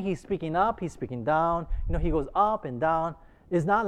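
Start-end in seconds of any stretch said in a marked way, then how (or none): 0.0-0.8 "speaking up" lifted, rising at the end; pitch going up. Shown as a demonstration. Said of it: "he was up and down". 0.8-1.7 "speaking down" dropped back from the raised pitch; pitch going down. Shown as a demonstration. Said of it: "he was up and down".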